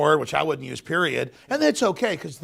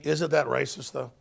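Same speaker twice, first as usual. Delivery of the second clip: sarcastic. Pretend. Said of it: "I'm being sarcastic".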